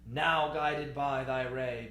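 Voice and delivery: broad, measured "Now guided", held to "ray"; expressive phrasing. Shown as a demonstration. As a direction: project the line, drawing out "ray". Teacher demonstrates phrase before big breath.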